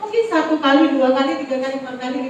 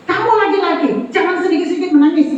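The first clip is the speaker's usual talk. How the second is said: father's admonishment; 4 semitones higher, faster than usual. Retold or imitated. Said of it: "Robert saya ajar begitu".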